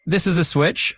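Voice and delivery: lightly British example sentence; UK accent. Shown as a demonstration. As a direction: say it with a touch of British pronunciation. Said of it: "So in a U K accent".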